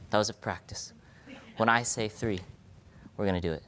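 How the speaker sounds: hushed whisper to the crowd. Real, not acted. Whispering to the audience before the clap. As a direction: lean in and whisper the instructions.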